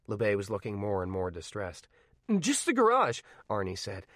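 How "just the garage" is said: higher, louder, pleading; calm cracking. Acted. Arnie pleads with LeBay for the garage, calm cracking. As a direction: let the calm give way. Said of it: "his calm starting to crack".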